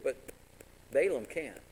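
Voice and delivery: normal talking voice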